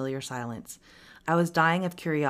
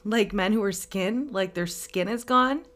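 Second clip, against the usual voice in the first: higher, slow, incredulous excited question; 5 semitones higher, 3 dB louder than usual. A narrator's reading. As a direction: ask it with eager excitement. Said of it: "I asked excitedly".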